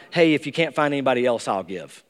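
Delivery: offhand, unwilling, like a last resort; reluctant offer. Pretend. Giver shrugging to Paul, grudging and trailing off. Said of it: "It's not".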